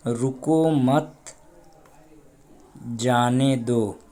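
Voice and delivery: very slow, drawn-out example sentence; slow reading. Shown as a demonstration. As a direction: stretch out each word, long silence before जाने. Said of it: "अगर यहीं पर हम सकता लगा दें". (धीरे-धीरे खींचकर)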